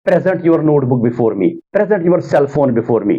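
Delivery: "present" stressed on PRE, like the noun; slow reading, verb "present" said as PREZ-ent; common mispronunciation. Shown as a demonstration. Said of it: "प्रेजेंट को हम पढ़ते हैं अक्सर".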